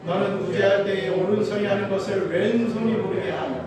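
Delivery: measured, solemn Bible reading; scripture reading. Acted. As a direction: read the verses slowly like a liturgy. Reads scripture aloud. (성경을 엄숙하게 낭독하듯)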